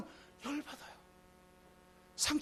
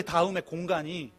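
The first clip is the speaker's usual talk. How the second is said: soft echo; 7 semitones lower, 6 dB quieter than usual. Acted. Echo softer.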